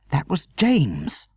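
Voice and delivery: high, slow worried outburst; frightened mother crying out the news; anxious cry. A narrator's reading. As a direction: blurt it out in alarm. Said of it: "Mother cried".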